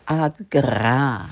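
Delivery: "agra" said slowly with a heavy rolled R; stressed R. Shown as a demonstration. Presenter teaching a colleague the name, R stressed. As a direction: roll out the R in "agra", low and deliberate. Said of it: "die Betonung liegt auf dem R".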